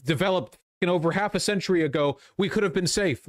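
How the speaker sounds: hammed-up regretful official whining about bunkers; mocking Chinese Party official. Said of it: "would be like".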